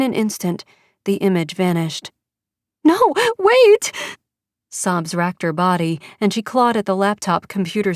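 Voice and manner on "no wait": high, loud desperate shout; much higher, louder panicked cry. Acted. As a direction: call out before the screen goes dark. Mother cries out as image vanishes.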